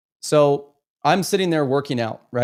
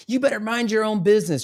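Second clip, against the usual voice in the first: higher imitation of a woman in a quarrel; retold defensive retort; 5 semitones higher than usual. Woman at the gym rebuffing a man, high retold retort. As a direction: tell them off in a put-on higher voice.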